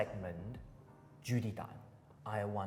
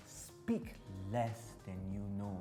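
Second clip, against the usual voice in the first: slow recitation; 4 semitones lower, 9 dB quieter, slower than usual. Shown as a demonstration. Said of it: "Third line".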